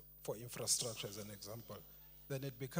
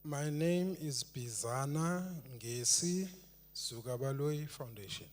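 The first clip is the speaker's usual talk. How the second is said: louder and slower, spelling it out; 4 dB louder, slower than usual. Real, not acted. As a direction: speak up so the chair hears. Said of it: "Can you speak louder".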